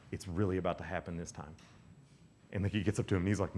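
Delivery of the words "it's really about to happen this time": low, soft relayed message; murmuring. Retold or imitated. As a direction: murmur it along the line, hushed. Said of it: "he hears something else murmuring".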